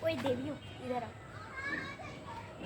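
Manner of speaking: put-on slow, high, drawn-out call to the girls; drawled teacher call. Teacher summoning the girls, slow high drawl. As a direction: stretch each word like a bossy teacher summoning. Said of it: "तो उसने बोला".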